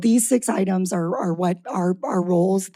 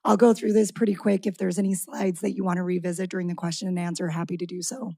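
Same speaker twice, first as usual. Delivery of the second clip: raspy voice. Real, not acted. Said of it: "I have a little bit of a raspy voice tonight".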